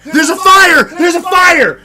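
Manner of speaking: high yelled alarm, mom's voice; mock panic yell of fire; retold panicked shout. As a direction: scream the warning like a frantic mom. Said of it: "my mom was like".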